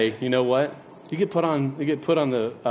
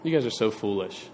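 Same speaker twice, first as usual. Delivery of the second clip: stern rebuke; 5 semitones lower, 6 dB quieter than usual. Retold or imitated. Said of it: "And Jesus looks and said".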